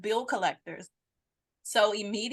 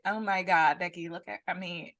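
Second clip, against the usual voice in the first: Becky voice; 2 semitones lower than usual. Retold or imitated. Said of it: "my Becky voice real good".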